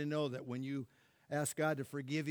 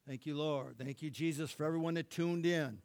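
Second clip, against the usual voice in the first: closing prayer; 3 dB louder than usual. Acted. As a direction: bless them as the music rises. Closing prayer over music.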